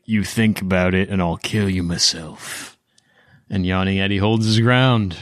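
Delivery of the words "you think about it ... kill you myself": low, threatening scold; scolding growl. Acted. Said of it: "scold him a little bit".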